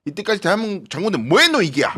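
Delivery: 높은 음으로 화내며 다그치는 흉내; 경상도 사투리로 호통치듯 흉내; 노무현 전 대통령. Retold or imitated. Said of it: "굉장히 세게 말씀을 하셨기 때문에". (세게 따져 묻는 말투 흉내)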